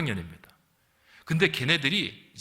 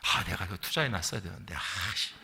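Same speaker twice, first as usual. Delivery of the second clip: low, quiet muttering of a worldly parent; grumbling regret; 9 semitones lower, 7 dB quieter than usual. Retold or imitated. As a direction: mutter a petty regret under your breath, lower and softer. (낮고 작게 투덜대는 후회)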